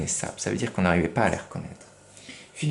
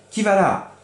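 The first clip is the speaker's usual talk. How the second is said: higher, louder small voice; little voice; 10 semitones higher, 5 dB louder than usual. Acted. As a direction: call out in a tiny high voice. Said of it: "une petite voix". (petite voix aiguë qui appelle)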